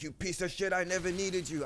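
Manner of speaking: high, sneering cartoon voice; hammed-up betrayer. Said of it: "He's like".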